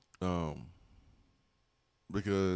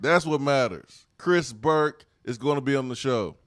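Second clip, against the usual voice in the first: excited; 3 semitones higher, 5 dB louder than usual. Real, not acted. Hyping guest, repeated.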